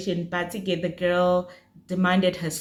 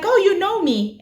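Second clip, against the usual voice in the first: surprised; 11 semitones higher, 5 dB louder than usual. Retold or imitated. Ex surprised she's recognised.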